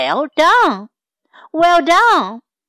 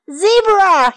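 roaring call; 6 semitones higher than usual. Acted. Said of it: "he roared".

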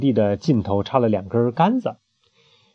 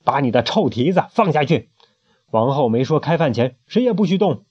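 mild menace; 2 semitones higher than usual. Acted. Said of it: "恶狠狠地盯着贝里奥".

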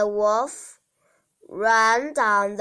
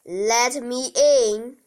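big bad wolf; 2 semitones higher, 5 dB louder than usual. Wolf demands entry.

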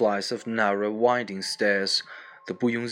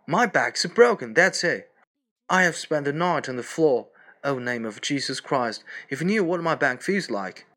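lightly voiced Boris, higher and aching; pained complaint; 4 semitones higher than usual. Boris explaining he slept on the floor: higher pained moaning. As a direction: moan about the back, a hint of agony.

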